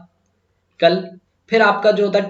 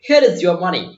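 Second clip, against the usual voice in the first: handing money back; 4 dB louder, much slower than usual. Retold or imitated. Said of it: "वो बोल रहा है".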